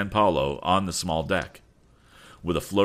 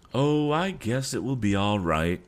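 slow, higher captain's voice; lightly voiced easygoing captain; 6 semitones higher than usual. Captain replying to his crew, lightly voiced and slow. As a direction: draw it out a little, pitched up.

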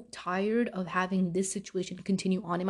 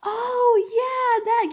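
much higher, louder sudden recognition; school lady; 13 semitones higher, 6 dB louder, much slower than usual. Retold or imitated. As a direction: chirp it like a receptionist who just remembered. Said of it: "she's like".

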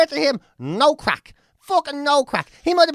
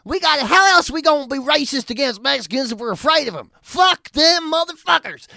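mock gun-loving Republican; 4 semitones higher, 4 dB louder than usual. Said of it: "the Republicans are saying".

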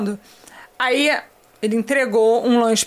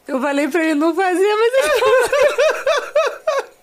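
rising into a stretched, high laugh; re-enacted protest dissolving into laughter; crying with laughter; 9 semitones higher, 3 dB louder, much slower than usual. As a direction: break up on the last words. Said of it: "mas eu chorava de rir".

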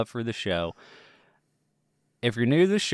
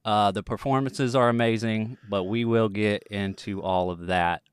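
put-on Texas accent. Podcast host opening the show in a put-on Texas accent. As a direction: lean gently into a Texas accent. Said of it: "am I gonna keep this accent going".

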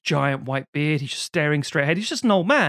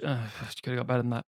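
grumpy wife; 4 semitones lower, 7 dB quieter, much faster than usual. Retold or imitated. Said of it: "and the grumpy".

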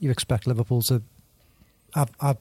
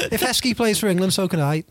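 worked up; 6 semitones higher than usual. Real, not acted. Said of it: "Sorry, I'm a bit emotional".

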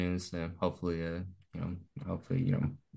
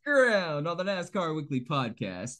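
radio voice; 3 semitones higher than usual. Acted. Host closing the lightning round, announcer voice. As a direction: lean into the host read. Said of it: "his radio voice".

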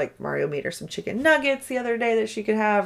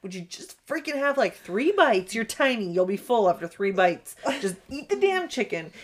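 higher, held-in parental frustration; exasperated pleading; 3 semitones higher, 4 dB quieter than usual. Retold or imitated. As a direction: bargain wearily with a stubborn kid. Retold mother begging child to eat.

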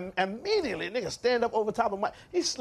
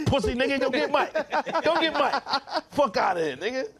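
mock tough threat; 5 semitones higher than usual. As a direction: bark it like a bodyguard squaring up. Acted threat to Mike's attacker.

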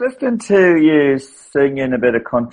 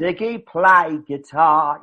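put-on slow singer-style London accent; 4 semitones higher, slower than usual. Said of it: "a singer did that way back in the London accent".

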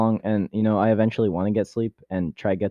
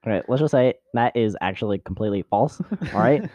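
Ben Shapiro impression. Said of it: "That's just Ben Shapiro".

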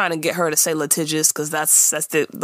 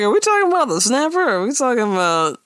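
mock suspicious; 5 semitones higher, faster than usual.

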